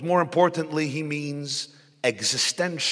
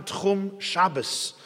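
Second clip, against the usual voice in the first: Tchum Shabbos drawn out slowly; slow, weighted term; 4 dB quieter, much slower than usual. Shown as a demonstration. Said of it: "what's known as Tchum Shabbos".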